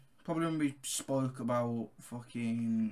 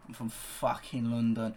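lower-pitched Cockney; London accent; 4 semitones lower than usual. Shown as a demonstration. Co-host claiming to be a Londoner, lower London accent. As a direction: play up a low London accent. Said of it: "Give us your best London accent".

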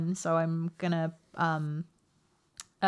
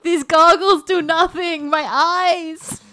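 whimpering; 10 semitones higher, 10 dB louder, much slower than usual. Acted. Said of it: "sad little noise into my comm link".

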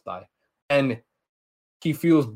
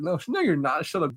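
higher-pitched retold squabbling; mock screeching argument; 5 semitones higher than usual. Captive contradicts the others, mock screeching. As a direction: cut the others off in imitated panic. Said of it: "They all start screeching".

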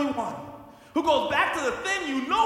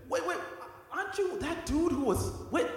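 higher-pitched, lightly acted questioning bystander; suspicious bystander; 5 semitones higher, 3 dB quieter than usual. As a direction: question him with mild suspicion, voice raised in pitch. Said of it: "someone comes up to Peter and said".

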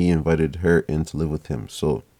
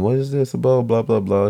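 mock screaming; 4 semitones higher than usual. Girlfriend finding her bags packed, mock screaming. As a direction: imitate her screaming in a higher voice. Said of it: "She starts screaming".

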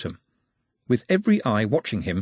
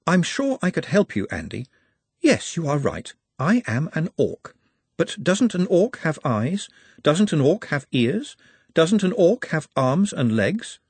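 lightly voiced courteous orc; high, precise and courteous; polite orc; 6 semitones higher than usual. Nut reasons gently with Andy.

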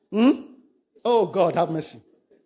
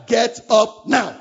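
louder and slow, insistent; firm command; 4 dB louder, much slower than usual. Pretend. Preacher telling the worker firmly to get up. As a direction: spell out the order, firm and slow. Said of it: "you say".

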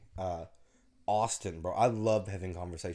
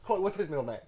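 laughing imitation; 9 semitones higher, 4 dB louder, faster than usual. Mimics wife asking.

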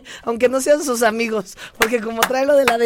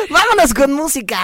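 laughing; 4 semitones higher, 7 dB louder than usual. Real, not acted.

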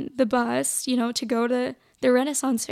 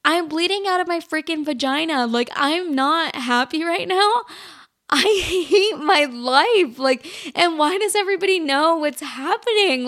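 exasperated; 4 semitones higher, 3 dB louder than usual. Retold or imitated. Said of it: "And I'm like".

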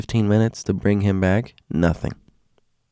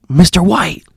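high, loud call across the ward; a nurse shouting for a colleague, high and loud; urgent call; 10 semitones higher, 5 dB louder than usual. Retold or imitated. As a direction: call his name in alarm.

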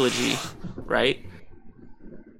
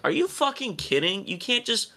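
incredulous outrage; 3 semitones higher than usual. Retold or imitated. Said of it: "I'm like".

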